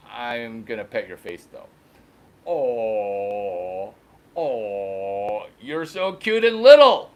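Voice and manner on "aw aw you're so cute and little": gushing aw. Retold or imitated. Cooing at the old cow, gushing baby talk. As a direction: melt over the cute cow.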